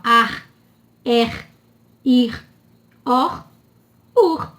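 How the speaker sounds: AR, ER, IR, OR, UR, each ending on a strong R; isolated syllables, final R clearly sounded. Shown as a demonstration. Teacher demonstrating syllable-final R, strong sound. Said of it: "ele tem um som forte".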